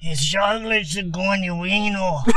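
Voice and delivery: hammed-up Italian mobster. Joking among friends, hammed-up Italian mobster accent. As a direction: say it like a wiseguy from the old neighbourhood. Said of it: "You go, uh, Italian. Italian mobster".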